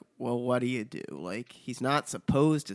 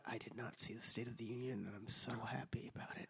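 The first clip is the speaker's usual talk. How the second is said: soft, fast whispered aside; whispering; 4 semitones lower, 18 dB quieter, faster than usual. Real, not acted. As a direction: whisper it like a secret. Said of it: "whispered aside".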